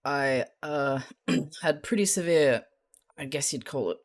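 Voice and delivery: halting, reluctant admission; embarrassed confession. Acted. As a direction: stall with awkward pauses before confessing.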